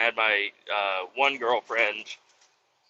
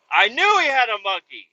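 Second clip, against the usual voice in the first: vindicated; 9 semitones higher, 6 dB louder than usual. Retold or imitated. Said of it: "I'm like".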